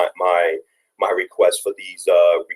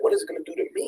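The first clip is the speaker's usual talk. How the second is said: high, breaking voice on the edge of tears; choking up as he repeats his nephew's words; 7 dB quieter, much faster than usual. Real, not acted. Father retelling nephew's question, voice cracking with tears. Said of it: "this broke me down where I'm crying currently".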